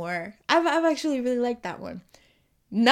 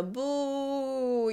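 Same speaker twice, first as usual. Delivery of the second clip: long drawn-out mock boo; imitated crowd boo; 3 semitones higher, 3 dB quieter than usual. Speaker standing in for a missing sound bite, imitated boo. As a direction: stretch out a boo like a sound effect. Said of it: "if I had a little sound bite".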